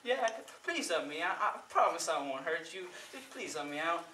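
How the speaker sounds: soft, worn-down begging; tired pleading. Acted. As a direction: beg softly as a weary devil. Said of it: "He's getting very tired".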